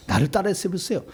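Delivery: usual speaking voice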